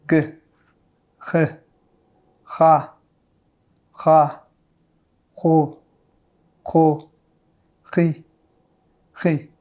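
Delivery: syllables with a French throat r; ha, ho, ri with the uvular r. Shown as a demonstration. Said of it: "practice with some syllables".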